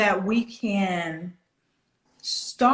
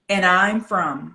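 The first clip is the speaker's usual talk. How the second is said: "And I'm from" slow and level, stopped dead after "from"; period after third word; 2 semitones lower, 3 dB louder, slower than usual. Shown as a demonstration. Coach models three-word chunks for student, slow and flat. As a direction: put a full stop on "from", separating each word group. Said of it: "after every third word".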